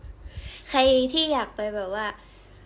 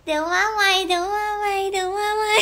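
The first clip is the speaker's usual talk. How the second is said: high, loud sing-song goodbye; calling out goodbye; 9 semitones higher, 7 dB louder than usual. Real, not acted. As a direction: call out cheerfully while leaving. (ตะโกนลาเสียงสูงดัง)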